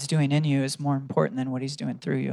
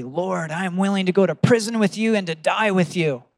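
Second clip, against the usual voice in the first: bold declaration; 4 semitones higher, 4 dB louder than usual. Retold or imitated. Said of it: "he declares boldly".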